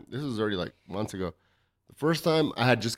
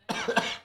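short hacking cough; just swallowed a bug; 8 dB quieter than usual. Real, not acted. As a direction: try to cough up a fly. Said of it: "Let's see if I can cough it up".

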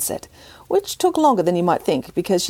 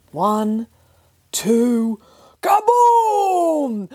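excited; 7 semitones higher, 3 dB louder, much slower than usual. A narrator's reading. Cannon fires in story.

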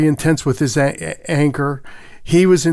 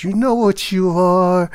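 slow, higher-pitched accusing question; retold anger; 4 semitones higher than usual. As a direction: draw out the accusation like an angry father. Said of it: "and very angry".

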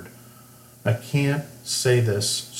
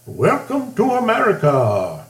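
high, loud mock Indian accent; 12 semitones higher, 5 dB louder than usual. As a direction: put on a broad Indian accent to imitate a doctor. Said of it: "That's my Indian accent".

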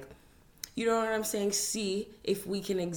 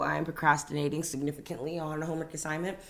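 muffled, talking round teeth whitening. Real, not acted. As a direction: speak through a whitening tray. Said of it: "if I sound a bit muffled right now".

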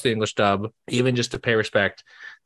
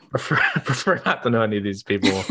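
snooty; 2 semitones lower, faster than usual. Shown as a demonstration. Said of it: "in a very snooty way".

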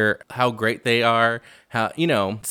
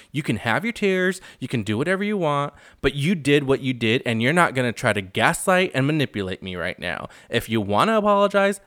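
retold confrontation; 3 semitones higher than usual. Recapping Rinna confronting Kathy over her tears, firm scolding. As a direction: act out laying down the law.

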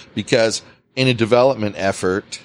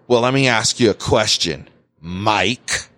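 sarcastic boss; 2 semitones lower than usual. Retold or imitated. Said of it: "And that's how he said it, too".

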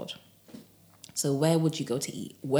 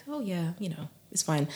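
softer, unhurried reassurance to oneself; calm; 4 dB quieter than usual. Shown as a demonstration. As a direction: let it go gently, nothing to worry about. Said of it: "calm down and act like".

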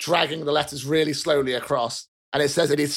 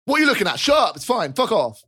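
snapping; 5 semitones higher than usual. Acted. Ronald snaps at onlooker.

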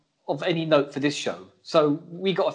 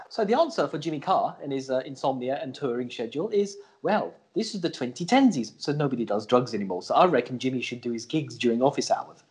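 scripted read; 4 semitones lower than usual. Acted. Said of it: "how I read that scripted piece".

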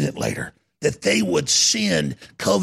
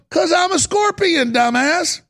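high, loud, blunt comeback; scornful scorpion; 11 semitones higher, 5 dB louder than usual. Retold or imitated. Scorpion answering the dying frog, loud mock scorn. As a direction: throw it back loudly at the dying victim.

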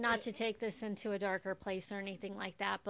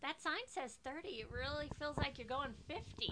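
put-on higher, worried kid nagging the driver; nervous kid passenger; 4 semitones higher than usual. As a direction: imitate kids nervous about speed. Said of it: "they're like".

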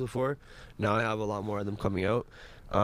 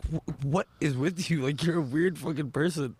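mock retort; 4 semitones higher than usual. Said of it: "I'm like".

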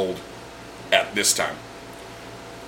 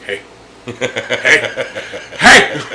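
building urgent call; 3 dB louder, much slower than usual. Retold or imitated. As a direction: hiss it then shout to get her attention. Urgent call to coworker Carmen.

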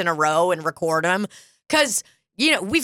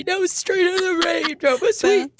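high impersonation; 9 semitones higher than usual. Retold or imitated. Continues her impersonation.

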